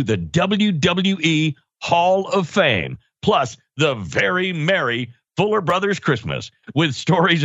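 lively announcer plug with swooping pitch; podcast promo read. Acted. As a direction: sell it like an ad, punching key words. Host reads the show plugs.

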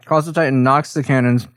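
talking through a mouthful of pizza; chewing pizza while talking; mouth full. Real, not acted. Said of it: "I'm sorry, I'm eating pizza".

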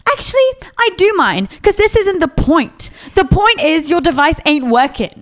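high, indignant retold retort; mock-mad comeback with attitude; real mad. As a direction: put your foot down, re-enacting anger. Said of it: "got real mad real quick".

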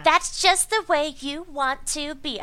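a hint of a breathy ditzy hypnotist; bimbo voice. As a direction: coo it like a sweet airhead hypnotist. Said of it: "I'm totally doing a bimbo voice".

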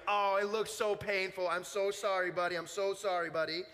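a hint of an overly sorry camp leader; mildly mimicked pitying adult; sympathetic leader. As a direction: lightly mimic gushing sympathy. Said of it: "his leader was like".

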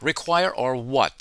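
slow, scoffing "Require" drawn out; slow sarcastic "Require or what?"; mocking question. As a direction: sneer at "Require or what?" slowly. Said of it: "He said".

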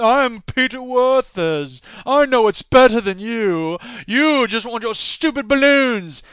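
slow, put-on haughty British doctor; slow snobbish British imitation; mock snooty doctor. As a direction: sneer like a pompous scientist. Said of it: "What kind of name is that".

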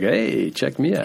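slow, drawn-out smug boast; smug pride. Acted. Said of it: "that sort of smug pride, like".

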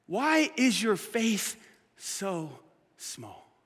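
very slow, fading to a hush; a tender rebuke, dying away; Jesus calmly questioning the disciples; slow, gentle Jesus. Retold or imitated. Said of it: "But Jesus still says".

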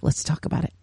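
whispered. Real, not acted. Aside after inviting listeners.

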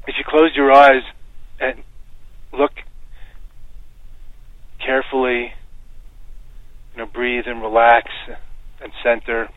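measured meditation guidance with long pauses; guided meditation. Shown as a demonstration. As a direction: guide listeners gently inward, phrase by phrase.

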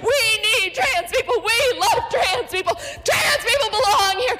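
tired, winded chanting; out of breath. Real, not acted. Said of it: "she's out of breath and tired".

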